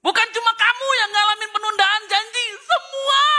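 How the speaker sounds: loud, high booming rebuke; mock shout as God. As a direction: thunder it back at the complainer. God voiced, annoyed. (Tuhan menegur dengan suara lantang)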